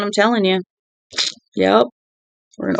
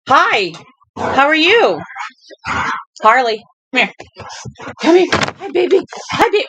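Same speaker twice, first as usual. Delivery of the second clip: pet greeting; 6 semitones higher than usual. Real, not acted. Owner greeting her dog Harley, high cooing baby voice. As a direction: coo a hello to the dog.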